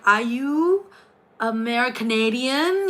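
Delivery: hesitant, drawn-out question, rising; unsure guess. Retold or imitated. Streamer guessing a stranger's nationality, unsure. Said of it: "I was unsure of myself".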